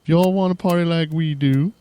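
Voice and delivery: shouting to a crowd at a rap show, pumped hype voice; hype man call. Pretend. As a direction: get the crowd going like a hip-hop MC. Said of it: "Wrong show".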